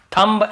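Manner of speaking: "थंब" with the final b sounded; old wrong B. Shown as a demonstration. Teacher recalls how students used to say it, b sounded in "थंब". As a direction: release an audible b at the end of "थंब". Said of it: "ऐसे बोलते थे".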